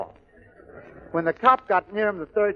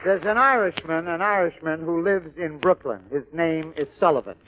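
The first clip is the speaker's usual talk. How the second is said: normal talking voice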